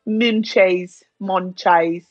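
Munchies with a drawn-out "ay" or "eye" in the ending; playful mispronunciation. Acted. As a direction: say Munchies as "mun-chayz", savouring it. Plays with pronunciation of word read.

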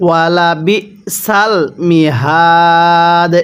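slow, drawn-out tajweed chant; Quran recitation. Shown as a demonstration. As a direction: recite it slowly, stretching the vowels. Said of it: "কিভাবে পড়তে হবে?". (ধীরে টেনে কুরআন তিলাওয়াত)

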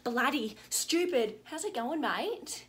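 put-on soft, playful Aussie slang in a broad accent. Aussie reeling off slang to show she's Australian, broad Aussie accent. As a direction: ham up the Australian accent lightly. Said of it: "I'm an Aussie".

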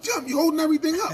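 high, quick mock complaint; imitated hollering. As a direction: mimic a hollering complainer, without full volume. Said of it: "everybody hollering".

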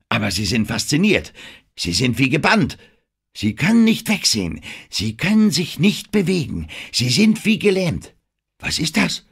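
hammed-up director's commands, high and loud; urgent film director. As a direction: talk her up into fright, pressing harder each line. Denham directs Anne's scream.

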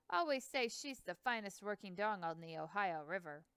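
put-on a proud old boatman bragging about his dogs; Hanson's voice. Hanson voiced, river man.

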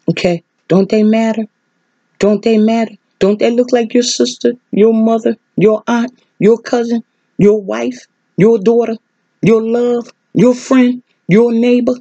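rising, pleading list; impassioned plea. Real, not acted. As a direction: press each one home. Preacher pleading with congregation.

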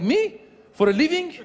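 high, coy playing dumb; evasive Persian dude. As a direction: act baffled by a simple question, pitched high. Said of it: "They'll be like".

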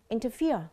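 "Interfere" with the weight on FERE; stress on third syllable. Shown as a demonstration. Teacher showing students the stress pattern, "Interfere" stressed on FERE. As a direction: land on the last syllable of "Interfere". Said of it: "nhấn vào âm thứ ba".

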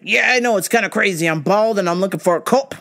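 lightly voiced customer, explaining; bald customer voice. Retold customer voiced in story.

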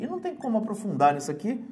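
normal talking voice

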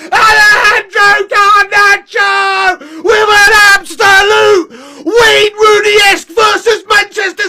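excited goal shout. Real, not acted. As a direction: yell the name as the ball goes in. Live goal reaction.

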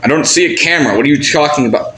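worked-up acted bafflement; exasperated denial. Denies it in acted quarrel.

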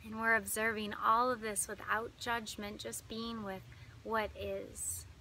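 calm meditation guide with long pauses; unhurried, lingering phrases, leading listeners inward; guided meditation. Acted.

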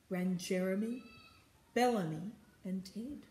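emphatic, rhythmic reading; story narration. A narrator's reading. Reader hurries the fleeing crew back, story narration. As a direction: drive the refrain along phrase by phrase.

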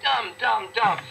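mocking shout; scornful shout. Real, not acted. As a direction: hammer each word in disgust. Ranting at humans.

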